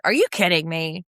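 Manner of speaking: mildly indignant retold outburst; mock exasperated disbelief; Andy, kinda mad. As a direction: imitate someone getting a bit mad. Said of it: "like, kinda mad".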